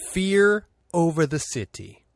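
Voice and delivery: slow, hammed-up Italian accent; a lightly put-on Italian accent; mock Italian accent. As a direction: drag it out like a bad Italian announcer. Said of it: "in my best Italian accent".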